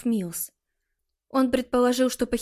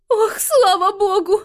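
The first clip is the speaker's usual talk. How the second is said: high, loud, tearful relief; mother seeing her daughter safe, loud tearful relief; relieved exclamation; 10 semitones higher, 9 dB louder, slower than usual. A narrator's reading. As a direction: cry out in relief. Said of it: "воскликнула она".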